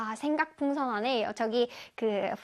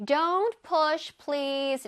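softened polite request; much slower than usual. Shown as a demonstration. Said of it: "굉장히 말이 순화가 됐습니다".

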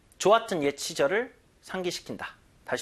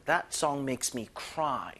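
very slow and softer model line; slow soft example; 3 semitones lower, 6 dB quieter, much slower than usual. Shown as a demonstration. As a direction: say it gently and slowly. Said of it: "cry는 그냥 울다라고요". (천천히 부드럽게 시범)

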